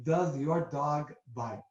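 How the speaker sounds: slow, amateur French-accent impression; hammy French accent, taken slowly; bad French accent. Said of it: "in this horrible French accent".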